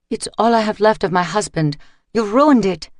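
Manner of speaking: a widow's anguished, rising lament; wailing. A narrator's reading. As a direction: cry out your loss to the thug. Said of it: "she wailed".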